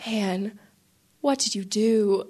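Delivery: understated, grave imitation of a displeased priest; retold reproach. Priest turns to his helper, mildly reproachful. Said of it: "Father Mike is mad at me".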